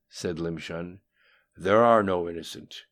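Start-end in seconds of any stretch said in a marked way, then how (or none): 1.6-2.8 loud, forceful retort with mild venom; spat out. A narrator's reading. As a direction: spit it out, much louder than narration. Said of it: "spat the voice after a brief silence".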